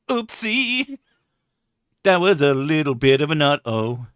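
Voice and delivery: high, cutesy little oopsie. Pretend. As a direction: squeak it like a sheepish child. Mock support hotline voice.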